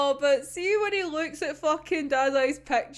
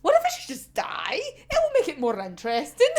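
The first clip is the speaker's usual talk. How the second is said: laughing mock suggestion; 3 semitones higher than usual. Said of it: "She's like".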